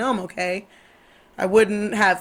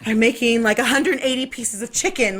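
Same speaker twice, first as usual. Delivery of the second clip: anxious self-talk; 3 semitones higher than usual. Retold or imitated. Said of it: "I still get all like".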